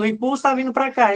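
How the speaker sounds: high-pitched pretend shout, no real volume; mock calling out. Derivation D2 echoing the warning, mock calling out. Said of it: "D dois tá gritando".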